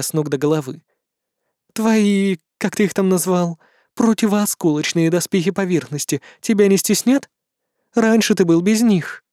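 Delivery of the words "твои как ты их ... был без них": a hint of a teasing she-demon; light demoness voice, doubtful tone; lightly voiced demoness.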